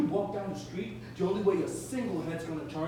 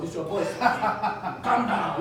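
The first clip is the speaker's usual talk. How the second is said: nervous laugh; 4 dB louder, faster than usual. Acted. Sonny laughs nervously to calm Howard.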